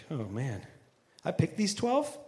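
low, soft, exasperated mutter; mock exasperation. Preacher imagining Jesus fed up, muttered softly. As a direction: groan at the disciples you picked. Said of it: "No, he doesn't say that. That's me".

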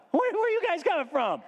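high-pitched incredulous question; exasperated. Acted. Host thinks about the naive magi, exasperated. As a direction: ask in high, baffled exasperation.

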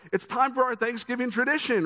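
high, bright-eyed party host announcing a game; chirpy extrovert voice. Retold or imitated. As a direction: sing it out like the eager host at the table. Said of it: "I don't know why I'm using this voice".

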